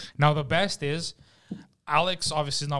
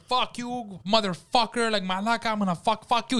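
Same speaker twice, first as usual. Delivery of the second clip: retold rant; 6 semitones higher than usual. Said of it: "so he lets him have it".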